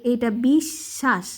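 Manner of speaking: বিশ্বাস with a doubled, pushed শ্ব, said slowly; pushed joined sound. Shown as a demonstration. Teacher modelling the ব-joined stress. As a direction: give বিশ্বাস a little push on শ্ব. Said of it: "ধাক্কা দিয়ে বলতে হয়".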